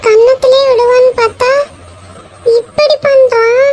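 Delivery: high tearful whine, slowing at the end; crying like a child. Acted. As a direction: sob it out like a child. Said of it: "குழந்தை மாதிரி அழுதுட்டு இருக்க".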